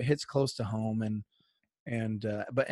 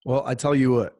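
a light English-Scottish lilt in place of an Irish fighter voice; slightly louder, hammed-up English-Scottish accent; mixed English-Scottish accent; 3 dB louder than usual. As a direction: attempt at a Conor McGregor accent that comes out English-Scottish. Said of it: "give me a little quick Conor McGregor accent".

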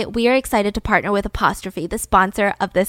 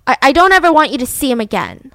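acted-out attempt to intimidate; intimidating; 2 semitones higher, 6 dB louder than usual. Betty warning Candy off her husband, intimidating. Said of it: "she was trying to intimidate Candy".

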